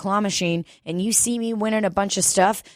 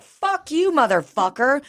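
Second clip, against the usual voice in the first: retold angry outburst; 7 semitones higher than usual. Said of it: "And she's like".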